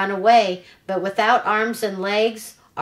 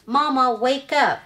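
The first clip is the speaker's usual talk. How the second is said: put-on young gosling voice; 5 semitones higher than usual. Gosling wakes his robot mother.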